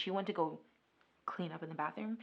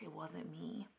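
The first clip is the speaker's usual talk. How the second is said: whispered denial; 12 dB quieter than usual. Retold or imitated. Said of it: "And he's like".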